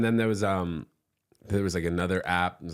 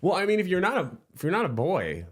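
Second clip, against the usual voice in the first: laughing; 12 semitones higher, 3 dB louder than usual. Real, not acted. Laughing through dark joke.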